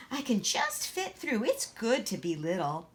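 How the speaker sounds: put-on small, timid little girl voice; Gracie, shy child. Shy little Gracie asking her sister, timid.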